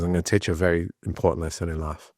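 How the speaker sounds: put-on light, quick Spanish accent. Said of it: "thick Spanish accent".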